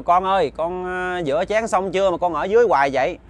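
father calling loudly for his son. Acted. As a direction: call out to the kitchen, loud. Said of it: "ổng mới kêu lớn lên".

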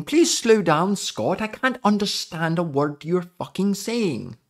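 acting out a baffled commenter; imitated complaint. Voices viewers' complaints about his speech.

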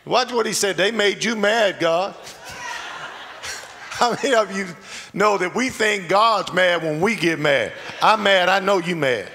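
rising preacher energy; building sermon. Real, not acted. Preaching at full force.

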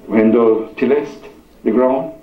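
measured reading with long pauses; scripture reading. Real, not acted. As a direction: read it out solemnly, phrase by phrase. Reads scripture to congregation.

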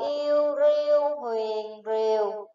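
"yêu riu huyền rìu" slowly spelled, each step apart, falling tone on "rìu"; slow spelling drill. Shown as a demonstration. Teacher spelling the word for pupils, slow drill. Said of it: "Các em nghe cô đánh vần tiếng rìu nhé".

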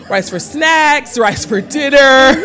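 drawing out the words through real laughter; laughing. Real, not acted. Listing rice meals, laughing.

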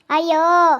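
loud wail of ayyo; captive's loud wail; acted scream. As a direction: cry out in protest. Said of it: "ನಾನ್ ಕಿರ್ಚಾಡ್ತೀನಿ".

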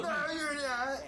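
laughing tease. Real, not acted. Laughing teasing reassurance.

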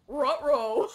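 loud ruh-roh into a high laugh; Scooby-style ruh-roh then laughter; cartoon ruh-roh laugh. Real, not acted. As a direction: laugh at the disaster. Gas runs out.

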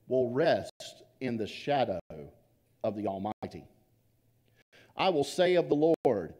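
slow solemn reading of the psalm; scripture reading. Acted. Pastor reads the psalm to the congregation, slow and solemn. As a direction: read the verse with reverence, slowly.

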